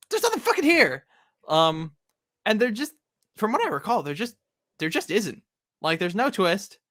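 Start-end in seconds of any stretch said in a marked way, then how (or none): 0.1-1.1 high, loud burst of disbelief; mock outrage. Acting out finding the vault empty, mock outrage. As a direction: exclaim it as the let-down treasure hunters.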